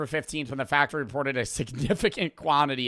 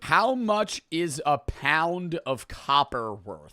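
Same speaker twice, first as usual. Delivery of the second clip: usual speaking voice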